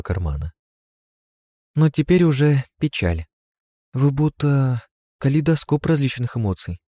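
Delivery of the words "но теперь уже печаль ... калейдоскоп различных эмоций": put-on high, little child-like voice; a tiny creature marveling; small girl voice. (тонкий детский голосок)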